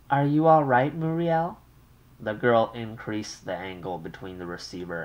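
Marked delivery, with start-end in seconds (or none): 0.1-1.6 higher, louder fretful mother's voice; an anxious mother on the line. Acted. Mother calls her daughter long-distance, fretful and raised.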